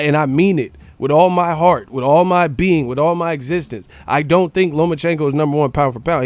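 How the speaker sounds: fervent declaration. Real, not acted. Heated declaration of conviction.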